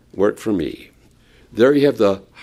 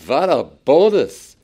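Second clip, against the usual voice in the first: louder excited; 4 semitones higher, 4 dB louder, slower than usual. Retold or imitated. Repeated exclamation.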